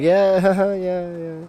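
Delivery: bashful laughing yeahs. Retold or imitated. Narrator answering his teasing friends, sheepish laugh. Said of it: "and I'm like".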